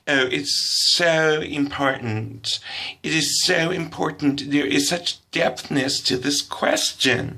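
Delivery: slow, drawn-out mock earnestness; earnest gushing girl. Second girl stressing the question's depth, slow mock earnest. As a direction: stretch every word like it is profound.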